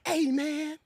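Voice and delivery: hint of a nervous man's trembling voice; lightly imitating a shaky, timid delivery; quivering voice. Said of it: "Dude's voice was quivering".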